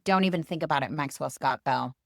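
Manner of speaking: a mother's final warning; stern mother. Acted. Mother warns son by full name.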